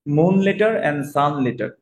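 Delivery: very slow, spelled-out English gloss; drawn-out teaching gloss; slow translation. Shown as a demonstration. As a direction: say it slowly so learners catch it. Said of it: "slow gloss to class".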